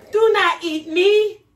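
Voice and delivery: high loud gingerbread cry; shouting. Acted. Gingerbread boy shouts at the woman while fleeing. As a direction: shout it out as the runaway cookie.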